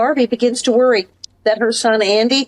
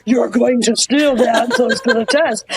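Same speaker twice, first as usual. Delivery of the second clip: Tallulah Bankhead. Retold or imitated. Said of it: "suddenly I'm Tallulah Bankhead".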